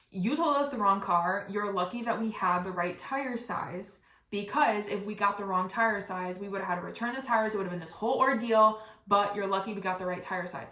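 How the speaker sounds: retold pissed-off. Tire guy scolding customer over the wrong car, mock pissed. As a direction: imitate an irritated telling-off. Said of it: "he's pissed, fucking pissed".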